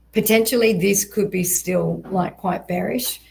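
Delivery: losing voice, a little hoarse. Real, not acted. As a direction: voice starting to go. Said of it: "losing my voice".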